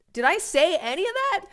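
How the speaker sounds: sudden high, loud incredulous cry; exasperated disbelief. Retold or imitated. To the accusers, a high, loud, incredulous retort. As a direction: throw it back in disbelief, voice shooting up. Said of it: "And it's like".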